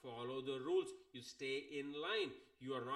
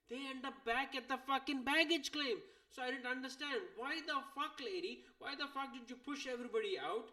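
much higher, louder, mock-furious questioning; incredulous rant; 9 semitones higher, 3 dB louder than usual. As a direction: demand answers from the lady in disbelief. Venting at the rushing lady.

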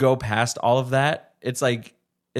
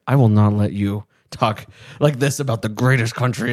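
indignant; 4 dB louder than usual. Retold or imitated. Recalls indignant reaction to mockery.

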